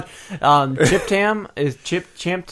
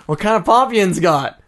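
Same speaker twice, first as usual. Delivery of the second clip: put-on Pittsburgh accent; 6 semitones higher, 5 dB louder than usual. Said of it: "He goes".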